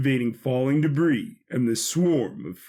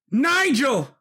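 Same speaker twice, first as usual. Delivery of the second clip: higher, louder cry of the name; anguished call; 10 semitones higher, 4 dB louder than usual. Acted. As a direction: cry out to a lost brother. Brother cries out.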